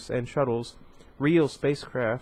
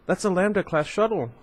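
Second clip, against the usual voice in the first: put-on excited kid; 6 semitones higher than usual. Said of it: "jumping with excitement".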